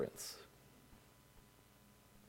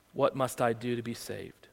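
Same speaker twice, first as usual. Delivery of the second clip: whisper; 7 semitones lower, 10 dB quieter than usual. Acted. Jailer pleading, whispered.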